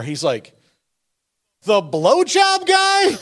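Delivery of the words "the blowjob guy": high, slow, laughing through the question; laughing disbelief. Retold or imitated. Retelling a friend's reaction at the stadium, laughing. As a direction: squeal it out in amused shock.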